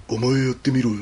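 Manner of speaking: imitated low old-guy narrator; understated deep-voice impression. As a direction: play a low-voiced older man. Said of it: "低い声で。".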